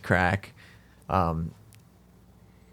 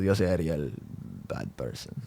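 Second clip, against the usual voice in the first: menacing tough guy; 5 semitones lower, 7 dB quieter than usual. Retold or imitated. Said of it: "He goes".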